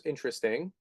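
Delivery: a softly voiced Mike, intrigued; Mike's catchphrase. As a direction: muse "Interesting." quietly, curious and lilting upward. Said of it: "That's Mike's line".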